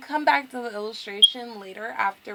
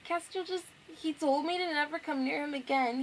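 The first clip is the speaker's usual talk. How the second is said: acted hurt, higher voice; upset girl; 4 semitones higher than usual. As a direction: play her lightly wounded, near tears. Voicing upset girl explaining rejection.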